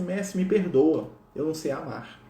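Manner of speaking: slow, drawn-out plea for forgiveness; contrite plea. Retold or imitated. Francis face to the ground before Jesus, contrite. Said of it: "com o rosto no chão".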